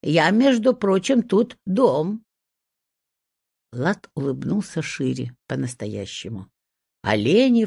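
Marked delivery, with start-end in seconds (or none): 0.0-2.2 higher-pitched, mildly affronted retort; indignant. A narrator's reading. Little hut insists on its standing as the house, indignant. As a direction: stand on your dignity, a little huffy. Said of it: "возмутилась избушка".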